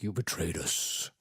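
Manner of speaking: menacing knights. Retold or imitated.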